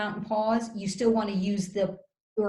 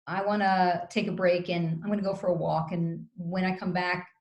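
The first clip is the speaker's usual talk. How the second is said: calm and gentle; 2 semitones lower than usual. Shown as a demonstration. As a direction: coach showing a calm time-out line to partner, calm and gentle.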